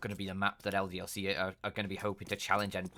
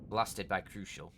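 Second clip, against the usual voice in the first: slow TV show title voice; 3 semitones lower, 5 dB quieter, slower than usual. Acted. Caster names a mock TV show.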